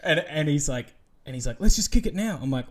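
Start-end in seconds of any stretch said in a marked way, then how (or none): 1.6-2.4 higher, louder pushy bro voice; imitating a pumped-up host; mock eager MC. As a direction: ham up the keen host. Retelling MC's eager push.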